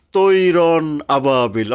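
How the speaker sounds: তৈরন with a full, heavy তৈ, slow; heavy tajweed vowel. Shown as a demonstration. Teacher demonstrating তৈরন আবাবিল heavy, no long a. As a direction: read তৈরন আবাবিল slowly with the heavy তৈ, not তাই. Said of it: "এখানে তৈ হবে".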